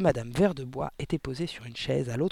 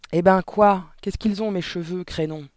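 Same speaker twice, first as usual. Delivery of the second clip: mildly raised, gruffly indignant husband; irritated cry; 3 semitones higher, 6 dB louder than usual. A narrator's reading. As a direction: protest crossly, loud at first. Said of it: "cria monsieur Verdebois". (cri agacé, un peu haussé)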